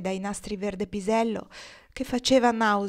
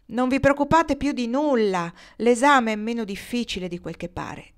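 a touch of bright cheer, pitched up at the start; cheerful exclamation; 3 semitones higher, 3 dB louder than usual. Acted. Borrelli cheerfully reassuring her classmates, mild glad exclamation. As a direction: lightly reassure the girls, upbeat. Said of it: "esclamò allegramente Borrelli".

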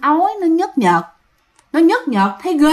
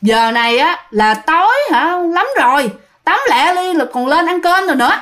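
sister-in-law lightly nagging, pitch climbing; mild retold scolding; 3 semitones higher than usual. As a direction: imitate an impatient telling-off. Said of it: "chị dâu mới la". (giả giọng chị dâu la rầy nhẹ)

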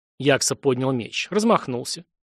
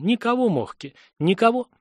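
grieving plea; 8 semitones higher than usual. A narrator's reading. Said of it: "прошептал он".

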